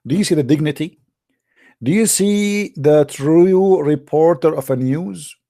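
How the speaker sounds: mock reverent preaching. Host mocking the rat hadith to his viewers, in high sarcastic awe. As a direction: sell the hadith like a devout preacher, dripping irony.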